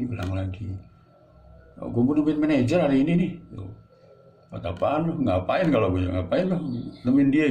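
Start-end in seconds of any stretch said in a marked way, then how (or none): 1.8-7.5 slangy casual voice. Shown as a demonstration. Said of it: "gitu kalau bahasa gaulnya".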